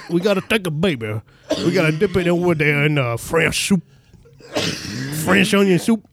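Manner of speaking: put-on silly Creole chef accent; Japanese Creole chef. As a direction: play a cartoon Creole cook giving a recipe. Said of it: "a Japanese Creole chef".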